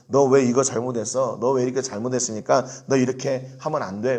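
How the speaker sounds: mock rebuke of a wrongdoer; a hint of a stern leader scolding. Leader scolding the people for wrongs, mild scolding. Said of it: "이렇게 책망하는".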